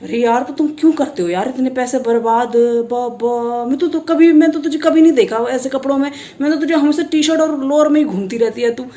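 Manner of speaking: lightly imitated Garhwali tailor's accent. Tailor scolding her about wasting money, lightly Garhwali-accented. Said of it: "वो ना ऐसे ही बोलते हैं".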